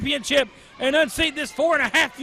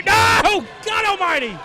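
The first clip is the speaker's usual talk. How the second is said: shocked yell; 5 semitones higher than usual. Real, not acted. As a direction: react to the impossible kickout. Kickout at two and nine tenths.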